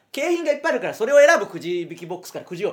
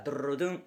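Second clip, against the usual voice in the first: lower, softer mouth drumroll 「ドゥルルドゥン」; imitated drumroll; 5 semitones lower, 7 dB quieter, much faster than usual. Mimicking the robot's drumroll before a number. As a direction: roll the tongue like a little drum. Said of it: "急に変な言い方する時もあって".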